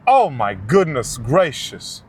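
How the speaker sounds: slow, disgusted groan; repulsed by the smell; smelling something awful. Real, not acted. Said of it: "it smells like sewage".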